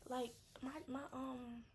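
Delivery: very high gushing invite; excited friend. Retold or imitated. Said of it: "So you could be like".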